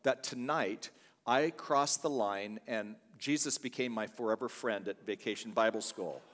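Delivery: mock-formal, measured retelling; real formal. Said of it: "real formal".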